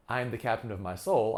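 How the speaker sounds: "soul" ends on a commanding downward fall; falling pitch at the end. Shown as a demonstration. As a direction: let SOUL drop firmly at the close. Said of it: "I can put a falling pitch at the end".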